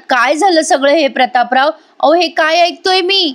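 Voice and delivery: rising into high-pitched retold disbelief; shocked demand. Madhubhau confronting Prataprao about what he heard, shocked demand. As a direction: act out a distressed man demanding answers.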